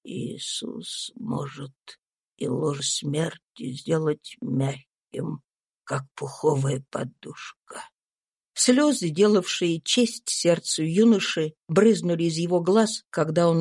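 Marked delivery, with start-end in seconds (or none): 0.0-7.8 slow, very soft, lower breathy whisper of a dying man; dying Tom comforting himself, a faint slow whisper; weak dying voice. A narrator's reading. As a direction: barely breathe the words out. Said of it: "улыбнулся и сказал".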